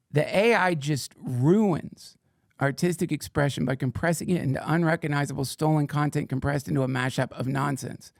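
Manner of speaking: slowly, weighing each word of the quote; slow deliberate reading. Shown as a demonstration. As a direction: read it out slowly, as if savouring it. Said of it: "let's read Vermiculus's, what he said".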